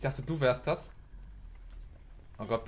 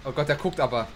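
being chased; 6 dB louder than usual. Real, not acted. Killer near, loud reaction.

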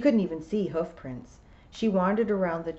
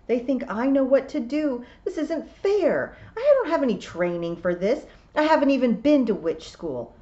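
higher, louder inner outburst; frustrated protest; 6 semitones higher, 5 dB louder than usual. A narrator's reading. Tiffany fretting that she lacks training, frustrated. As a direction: protest at the unfairness.

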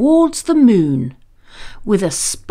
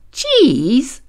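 puzzled question; 4 semitones higher than usual. Acted. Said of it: "asked James".

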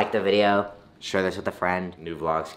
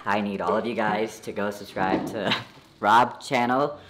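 cartoon chipmunk after helium; 4 semitones lower than usual. Real, not acted. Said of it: "I sound like an alien".

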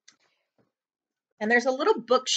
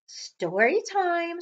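high, slow teasing call; mysterious voice; 6 semitones higher, slower than usual. Acted. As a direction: lure them in. Voice from the shadows.

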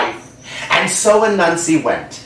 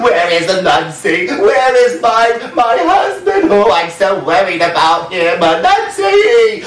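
worried wife calling; 5 semitones higher than usual. Acted. Wife searching for missing Anansi, high worried calling. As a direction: call out for the lost husband, rising high.

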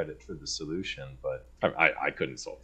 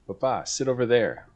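put-on toddler voice; 8 semitones higher, 6 dB louder than usual. Son quoted giving orders.

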